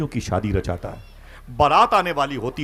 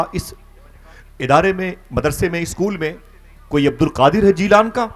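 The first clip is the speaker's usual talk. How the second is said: raised, higher pleading call; 7 semitones higher, 6 dB louder than usual. Retold or imitated. Traveller calling out to the scholars, loud and high. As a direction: ask the scholars loudly for Abdul Qadir. Traveller calls out asking teachers.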